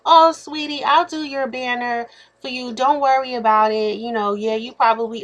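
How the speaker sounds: high syrupy "oh sweetie", sliding back down; mock sweet-talking a stranger; sugary sweet. Mocking the sweet reply she expected, high and syrupy. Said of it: "thought I was gonna be like".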